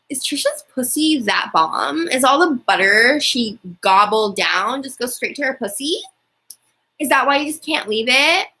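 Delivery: lightly voiced, petty and teasing, as if Trisha talks to Moses; petty Trisha mockery. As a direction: needle him like a mildly catty Trisha. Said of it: "get a little Trisha petty right now".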